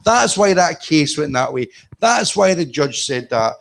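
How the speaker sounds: high, slowing amazed realisation; mock eureka. Reader discovering the case law, high delighted eureka. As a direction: act out the lightbulb moment. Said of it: "you'll go".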